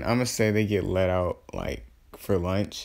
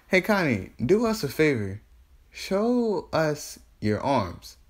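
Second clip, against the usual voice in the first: higher-pitched, drawn-out sweet demand; petty goading; 6 semitones higher, slower than usual. Acted. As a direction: goad her slowly, stretching the words. Sakura taunts Karin to show arms.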